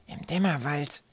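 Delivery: a touch of dread in the question; shuddering question. A narrator's reading. Zacke shuddering at the plan, timid.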